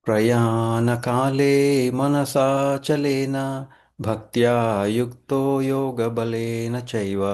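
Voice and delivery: chanted Sanskrit shloka, quick and rhythmic; Sanskrit verse recitation. Acted.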